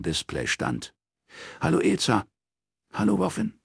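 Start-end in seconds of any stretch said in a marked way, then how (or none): 1.6-2.2 higher-pitched greeting to a friend; phone greeting. A narrator's reading. Robin answers friend's phone call. 2.9-3.5 high, thin-voiced friend on the phone; lightly voiced troubled caller; subdued caller. A narrator's reading. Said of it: "Ezas Stimme klang merkwürdig tonlos".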